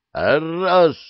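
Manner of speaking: loud, keen shout of the count; eager yell. A narrator's reading. Bettors watching the knight fall yell eagerly. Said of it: "азартно завопили спорщики".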